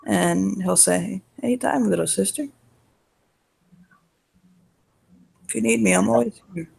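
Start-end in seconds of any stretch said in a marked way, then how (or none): 1.4-6.7 gentle, slightly raised brotherly voice; reassuring. Acted. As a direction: reassure a little sister tenderly. Brother figure comforts crying sister.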